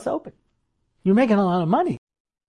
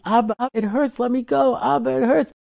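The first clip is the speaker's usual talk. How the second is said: put-on child crying out; 5 semitones higher than usual. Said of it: "And she's crying".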